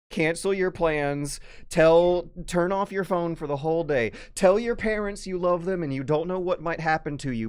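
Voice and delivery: loud overblown announcement; mock dramatic warning. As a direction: hype it like doomsday news.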